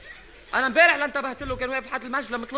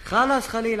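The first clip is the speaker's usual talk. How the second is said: exasperated scolding; 5 dB louder than usual. Acted. Scolding on the phone.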